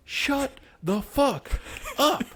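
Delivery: high, slow, cracking up while quoting; laughing imitation. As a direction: imitate the angry roommate through laughter. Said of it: "comes out, he's like".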